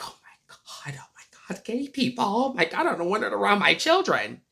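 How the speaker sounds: hushed then rising mock horror; scandalised parent. Imitating a homophobic parent horrified about gay people. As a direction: whisper it like it's scandalous.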